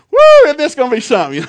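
high, fast, loud thrill; excited whoop. Retold or imitated. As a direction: whoop it out like a giddy kid at the gate. Excited at Disney gate.

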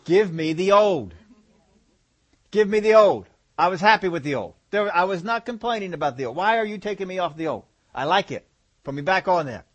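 a craving body pleading to go back; mock cranky body begging for old food; demanding body.

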